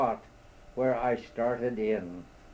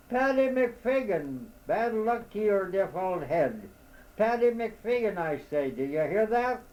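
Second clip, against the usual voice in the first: exasperated shouting; 7 semitones higher than usual. A narrator's reading. Lost man yelling at the owl he thinks is deaf, high and angry. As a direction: yell it at the deaf old head.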